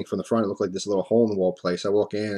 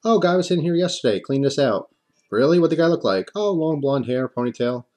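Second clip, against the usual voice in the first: higher lightly voiced bank teller; tellers' replies; 5 semitones higher than usual. Retelling each teller's reply, lightly voiced. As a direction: chirp the teller's stock answer. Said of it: "I get the same story".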